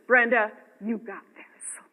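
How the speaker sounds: slow, encouraging self-talk; gentle pep talk. Shown as a demonstration. Speaker demonstrating a pep talk to herself, slow and encouraging. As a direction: reassure yourself slowly in third person. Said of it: "a little pep talk".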